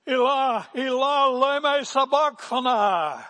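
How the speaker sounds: full-voiced high, anguished cry; Jesus. Preacher as Jesus crying out from the cross, loud high wail. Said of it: "with a loud voice".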